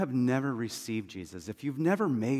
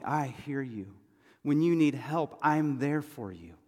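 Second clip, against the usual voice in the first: God. Acted. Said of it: "you hear God's voice saying".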